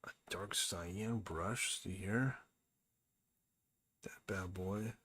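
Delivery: a soft, voiceless little aside; whisper. Real, not acted. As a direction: whisper it to yourself about the brush. Whispering at his brush choice.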